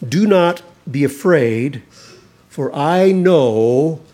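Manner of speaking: preacher declaring the angel's message aloud; proclaimed. Acted. Preacher reading the angel's words to the congregation, proclaimed loud.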